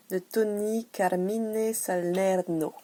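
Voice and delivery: put-on the name Salerno drawn out slowly in a light Spanish accent. Announcing the oracle deck author in a mock Spanish accent. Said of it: "Avec mon accent espagnol".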